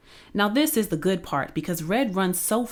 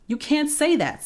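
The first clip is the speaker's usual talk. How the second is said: shocked, much higher; indignant protest; 10 semitones higher than usual. Acted. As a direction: cry out in disbelief. Jack protests the story skipped.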